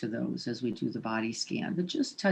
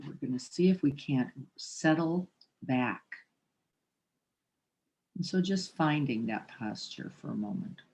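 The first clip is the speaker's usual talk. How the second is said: meditation teacher leaving long silences between instructions; spacious, measured meditation cueing; guided meditation. Real, not acted. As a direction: guide them gently to the breath. Guides posture and breath.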